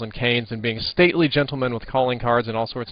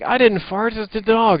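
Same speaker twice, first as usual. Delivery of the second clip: high mock defence; 11 semitones higher, 5 dB louder than usual. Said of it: "I was like".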